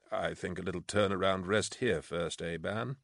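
gently suggest, without pressing; gentle. A narrator's reading. Hark advising a weary officer to rest, gently. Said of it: "said Hark gently".

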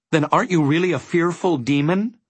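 high, desperate question. A narrator's reading. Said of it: "Milo asked desperately".

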